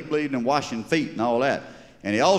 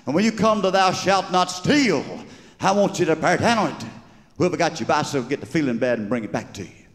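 building preacher cadence, rising higher on each line; 4 semitones higher than usual. Acted. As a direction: preach it like a Southern revival preacher. Methodist preacher preaching advice.

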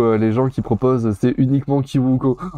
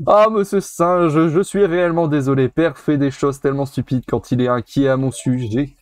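princess voice. Acted. The princess apologizing to the monkey for her father, lightly voiced. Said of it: "je lui ai fait une voix comme ça".

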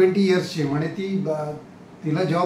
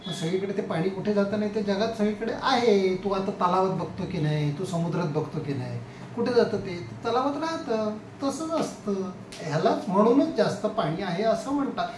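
gentle explaining; 3 semitones higher, 4 dB quieter than usual. Retold or imitated. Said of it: "ती त्याला नीट समजून सांगते".

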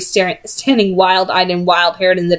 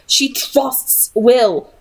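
protesting; 4 semitones higher, much slower than usual. Acted. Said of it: "protested Charlotte".

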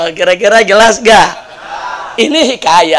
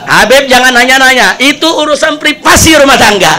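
louder, higher, laughing reply; laughing protest; 4 semitones higher, 4 dB louder than usual. Retold or imitated. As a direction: wave off the question with a laugh. Congregation teasing the preacher.

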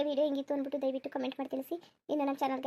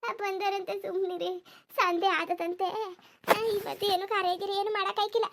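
aggrieved village woman; slower than usual. Acted. Woman refusing talk of funeral arrangements today, aggrieved. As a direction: protest through the grief.

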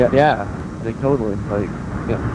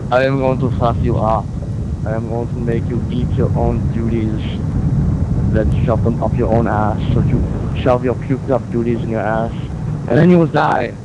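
tough guy voice. Pretend. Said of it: "here's my tough guy voice".

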